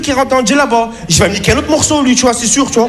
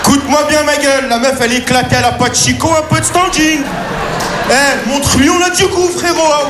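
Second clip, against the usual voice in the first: pep talk to his penis; 3 semitones higher than usual. Retold or imitated. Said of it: "je parle à Moustaphe".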